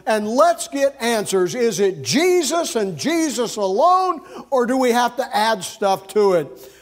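urgent church elders. Acted. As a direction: send them off firmly, demanding answers. Voicing the church sending delegates for answers.

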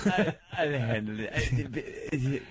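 deadpan bad acting. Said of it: "that acting was just D O A".

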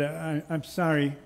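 mild tearful stammer, a touch of holding back tears; understated child trying not to cry; fighting back tears. Acted. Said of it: "fighting back tears".

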